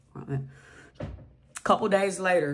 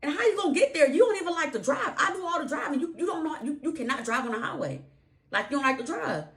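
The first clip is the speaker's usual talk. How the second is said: squeaky disbelieving protest, pitched way up; mock outrage at wife's plan, high and sharp; arguing husband, voice jumping high in disbelief; incredulous high voice; 10 semitones higher than usual. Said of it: "you must think I'm a fool".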